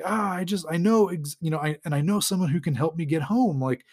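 lightly acted cry of sudden realisation; mild mock yell. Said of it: "and he yells".

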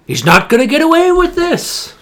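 very high, loud mock outrage; hammed-up cartoon villain vow, words stretched; villain imitation. Fan acting out the villain's return, hammed-up shout. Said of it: "He's like".

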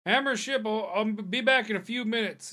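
a busy dwarf hollering he'll be back; dwarf cook shouting from the back room; dwarf innkeeper calling out. Acted. GM voices Hammership yelling from back.

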